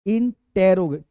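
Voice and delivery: "इंटेरोगे-" with a distinct "टे" syllable after इन; correct pronunciation. Shown as a demonstration. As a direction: sound out "इंटेरोगे-" in separate syllables, टे not ट्रो. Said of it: "इसे इंट्रो मत पढ़ना". ("इंटेरोगे-" में "टे" का साफ़ उच्चारण)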